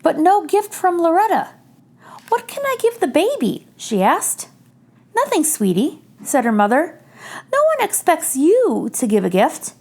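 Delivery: put-on gentle read-aloud for children; story narration. A narrator's reading. Reader sharing a picture book with children, gentle. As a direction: read it like bedtime story time.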